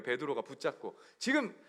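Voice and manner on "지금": Peter telling Jesus off, raised pitch; acted scolding. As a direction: scold in mock indignation, a little louder. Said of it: "예수님을 막 혼내는 거예요". (연기하듯 따져 묻는 꾸지람)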